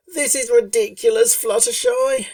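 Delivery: whining Rainbow Dash. A narrator's reading. Rainbow Dash whining to Fluttershy about the sand, high loud whine. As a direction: whine it like a sulky filly. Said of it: "she whined".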